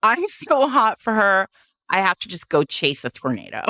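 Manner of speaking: a lightly voiced lovesick man; mock lovesick hero. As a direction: ham up the smitten hero. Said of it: "And he is like".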